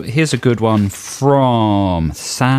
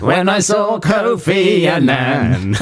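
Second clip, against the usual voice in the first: mock dramatic reading. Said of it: "I was walking".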